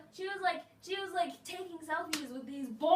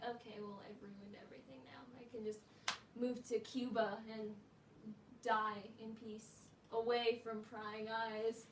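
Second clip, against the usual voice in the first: mock despair; 3 semitones lower, 6 dB quieter than usual. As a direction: play the tragedy of a ruined cloth. Mock despair over ruined cloth.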